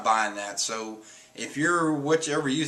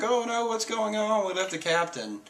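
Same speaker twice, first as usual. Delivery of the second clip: mock panic; 9 semitones higher than usual. Crew panics, captain left behind.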